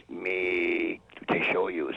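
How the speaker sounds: very slow, clipped mock Tonto line. Old man promises to show the diner guy, slow mock Tonto voice. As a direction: spell it out slowly like Tonto. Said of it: "in a Tonto kind of voice".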